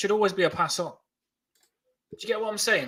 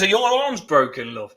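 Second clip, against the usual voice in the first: imitating mum; 3 semitones higher, 5 dB louder than usual. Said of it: "she comes down and goes".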